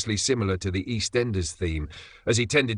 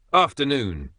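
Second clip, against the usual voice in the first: Devonian drawl; 5 semitones higher, 4 dB louder than usual. Acted. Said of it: "slow Devonian drawl".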